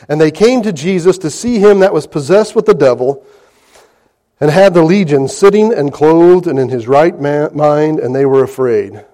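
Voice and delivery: formal King James reading; scripture reading. Acted. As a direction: read the verse out to the congregation. Reads scripture aloud.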